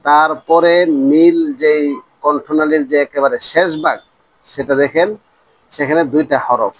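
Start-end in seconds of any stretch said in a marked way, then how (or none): none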